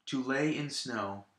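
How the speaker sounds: "To lay in snow" with light "To" and "in"; stress on LAY and SNOW. Shown as a demonstration. Teacher repeating the second line, stressing lay and snow. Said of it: "the other two syllables are also unstressed".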